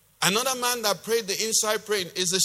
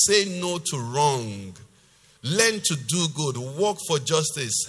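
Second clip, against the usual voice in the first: emphatic scripture reading; 3 semitones lower than usual. Acted. Preacher reading God's commands to the congregation, measured and emphatic. Reads closing commands of the passage.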